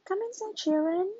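loud high call indoors. Acted. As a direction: call the children in from the rain. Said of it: "calls Daddy Pig".

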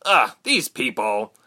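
slow groan of disgust and pain; lightly acted soldier, slow and pained. A narrator's reading. Soldier hit by frost groans.

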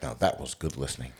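mock Doctor Edwards. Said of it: "is that how he sounds?".

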